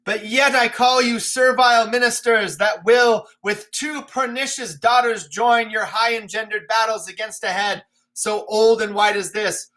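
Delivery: shout, then crack on the oh ho; wounded old man's shout at the sky; bitter raging king. Acted. Lear raging at the storm.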